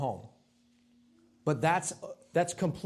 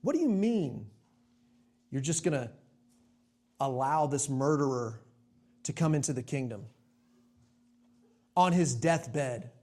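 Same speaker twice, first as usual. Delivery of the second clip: self-righteous prayer; 2 semitones lower than usual. Retold or imitated. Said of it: "That sounds like my prayer time".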